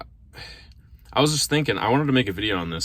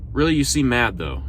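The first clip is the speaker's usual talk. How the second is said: higher, louder pressing of the point; insistent disbelief; 4 semitones higher, 5 dB louder than usual. Acted. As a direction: press them, as if unconvinced. Acted pestering repeat of question.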